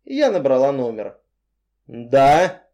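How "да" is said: irritated. Acted. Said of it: "Голос звучал недовольно".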